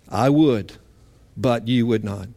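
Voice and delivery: soft, grieving repeat of the lament; tearful echo. Retold or imitated. Preacher repeats Jesus' lament, quiet and sorrowful. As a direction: let it fall away quietly, near tears. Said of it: "Real tears".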